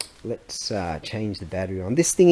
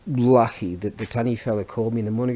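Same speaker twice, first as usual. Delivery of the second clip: usual speaking voice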